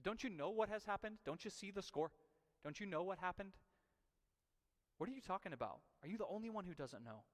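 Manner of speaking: incredulous at the stranger; exasperated. Retold or imitated. Cleopas snapping at the stranger, exasperated. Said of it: "Cleopas says".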